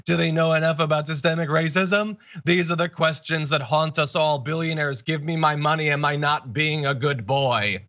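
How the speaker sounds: lightly mocking, sing-song sarcasm in the read tweet; mock sarcastic read. Host reading a pundit's sarcastic tweet aloud, lightly mocking. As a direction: read it like you're sneering at it. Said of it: "He's being sarcastic".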